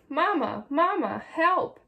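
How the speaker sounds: high, urgent repeated calls; storybook chick's frightened wail for help; cry for help. A narrator's reading. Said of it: "cried Little Chick".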